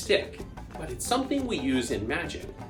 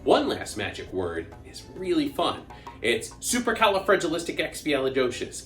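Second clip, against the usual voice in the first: put-on lively children's entertainer voice; bouncy show host talking to kids; kids party magician; 3 semitones higher than usual.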